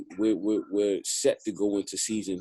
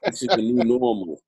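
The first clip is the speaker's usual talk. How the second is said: laughing; 9 semitones higher, 3 dB louder than usual. Real, not acted. Laughing about quarantine life.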